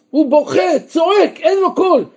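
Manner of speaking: rising, crying-out preacher's voice; impassioned cry. Acted. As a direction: cry out David's anguish. Preacher crying out David's pain.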